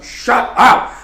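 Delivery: high, loud retold yell. Child retold yelling at the neighbours' dog, loud shout. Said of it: "yelling at the dog".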